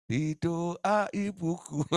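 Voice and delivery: slow, drawn-out mock delight; pleased listener. Preacher voicing a pleased churchgoer, slow mock delight. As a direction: savour hearing your name prayed.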